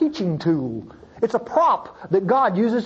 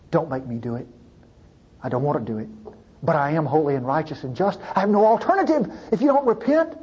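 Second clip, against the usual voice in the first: pleading; 3 semitones lower, faster than usual. Pretend. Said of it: "is pleading, begging people".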